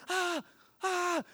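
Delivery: short, high, softened "ah" cries; mock yell. Son-in-law yelling beside injured father-in-law, mock high yelps. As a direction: imitate panicked yelling at reduced volume. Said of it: "I'm yelling too".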